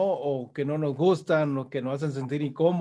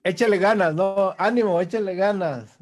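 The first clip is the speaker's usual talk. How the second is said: louder, insistent cheering-on; mock pep talk; 3 semitones higher, 5 dB louder than usual. Host mimics cheering up someone sad, mock encouragement. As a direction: imitate someone urging a sad friend on. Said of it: "y les decimos, "Ánimo".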